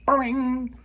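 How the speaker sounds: high breathy boing; a whispered cartoon boing; whispered sound effect. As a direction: whisper the spring noise up high.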